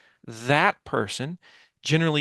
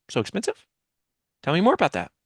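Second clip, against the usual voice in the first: curious pushback; faster than usual. Shown as a demonstration. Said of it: "technique that we teach called the pushback pivot".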